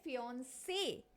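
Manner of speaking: फियांसे, the final e stressed and drawn out; fiancé with stress on e. Shown as a demonstration. Teacher showing students फियांसे said the French way. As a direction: say फियांसे leaning on the ending. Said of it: "हम ई पे stress दे रहे हैं फियांसे".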